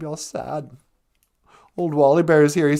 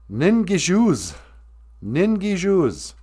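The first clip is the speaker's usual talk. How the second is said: Ningi stressed slowly, falling at the end; slow language-lesson modelling of Ningi shoes; slow teaching phrase; 5 semitones higher, slower than usual. Shown as a demonstration. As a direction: say Ningi slowly and clearly for learners. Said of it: "I really like those ningi shoes".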